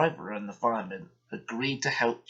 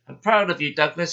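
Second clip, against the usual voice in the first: proud boss voice; 4 semitones higher, 7 dB louder than usual. Acted. Fat Controller praising.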